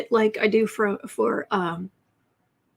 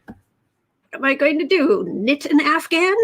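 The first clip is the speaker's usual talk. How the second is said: put-on little old lady voice; 5 semitones higher, 4 dB louder than usual. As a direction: play a tiny old lady, indignant. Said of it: "what he considered little old lady voice".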